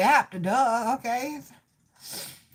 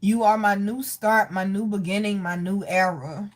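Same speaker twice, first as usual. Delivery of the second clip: lower, measured, earnest delivery; tender relayed message; 5 semitones lower than usual. Retold or imitated. Medium passing on a love message from the spirit, tenderly. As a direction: deliver each phrase gently and sincerely.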